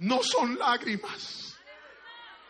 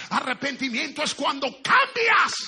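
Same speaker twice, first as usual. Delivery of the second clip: preaching at full force; 3 semitones higher, 6 dB louder than usual. Acted. Preaching climax.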